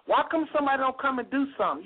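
imitating complainers. Caller-in mimics folks who want someone else to act, mock complaining. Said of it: "when you hear black folks saying".

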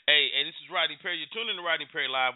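quick radio station ID; radio host. Acted. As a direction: rattle off the station ID.

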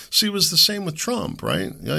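normal talking voice

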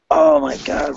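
blissed-out "oh my God"; elated outburst. Acted. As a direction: voice leaps high in awe. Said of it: "I'm really in that state of".

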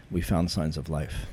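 slow, measured official announcement; deadpan imitation of an officer in command. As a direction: deliver it slowly, like a formal statement. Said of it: "with a very commanding posture".

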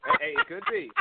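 cartoonish high squeak; squeaky high voice. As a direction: pitch it way up, teasing. Squeaky joking reply.

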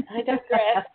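laughing through a quick aside. Real, not acted. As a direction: chuckle it off. Host laughs at herself.

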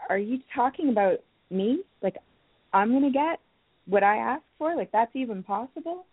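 incredulous questions lifting at the ends; doubting inner voice. Acted. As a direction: play the unsure little part that can't believe it. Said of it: "that quiet little part that's like".

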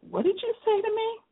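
imitating the boss's angry retort; mock angry demand. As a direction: boss confronting the employee, mildly mock angry. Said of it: "he said angrily".

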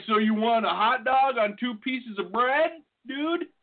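slow, lightly voiced puzzled clerk; mock clerk. Pretend hot dog seller questions the odd order, puzzled. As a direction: drag it out like a baffled counter guy. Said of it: "They'll be like".

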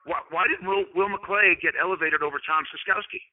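playful mock protest; sarcastic. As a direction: argue the grievance tongue in cheek. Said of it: "I'm saying this sarcastically".

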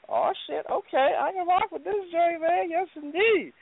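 put-on high Jamaican accent. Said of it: "my Jamaican accent sucks".

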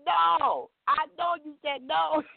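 mom's loud insistence. Retold or imitated. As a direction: jump up and insist on it. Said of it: "She said".

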